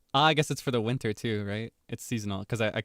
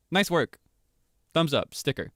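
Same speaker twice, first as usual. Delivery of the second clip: breezy, higher, offhand teacher; quick upbeat classroom praise; casual teacher praise; 5 semitones higher, 4 dB louder than usual. Shown as a demonstration. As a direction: toss it off like a teacher handing back papers. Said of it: "a natural, non-creepy way for a teacher".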